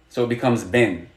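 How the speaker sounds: "bin" said low, with the final N sounded; pronunciation model. Shown as a demonstration. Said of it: "we're gonna add an N".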